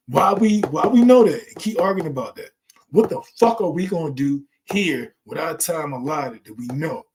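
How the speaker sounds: loud, fired-up rant, voice rising high; passionate shouting. Real, not acted. Ranting at the panel about life's purpose, impassioned shout. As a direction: preach it hard at full volume. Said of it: "I like getting passionate".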